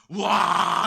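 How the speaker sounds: loud, high "whoa" burst; fire-breathing roar. Acted. Private playing a fire monster with lighter, roaring loudly. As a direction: roar out a blast of flame.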